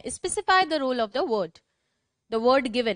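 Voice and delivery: slow, spaced repeat of the dictation. Shown as a demonstration. Teacher repeating the dictation for slow writers. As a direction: read it out slowly again for the writers.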